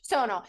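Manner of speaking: "Sonal" repeated as SOH-nal; "Sonal" said like "tonal" with an S; rhymes with tonal. Shown as a demonstration. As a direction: echo "Sonal" with a long, stressed o. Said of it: "It's like tonal with an S".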